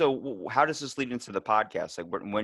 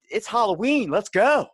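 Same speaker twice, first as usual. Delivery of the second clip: much higher, louder hype shout; excited; 11 semitones higher, 6 dB louder than usual. Retold or imitated. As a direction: cheer it like a kid at a party. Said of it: "I'm like".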